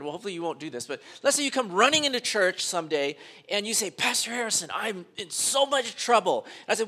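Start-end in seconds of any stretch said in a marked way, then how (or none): 3.9-6.5 mildly panicked appeal for help; plead, a little higher, as if in trouble; urgent plea. Acted. Churchgoer runs in to pastor in trouble, urgent plea.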